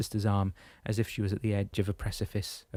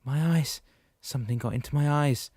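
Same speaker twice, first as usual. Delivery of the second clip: panicked cry, higher and louder; Daniel screams as something gets into his eyes, panicked; screaming; 6 semitones higher, 3 dB louder than usual. A narrator's reading. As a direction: cry out in fear about the eyes.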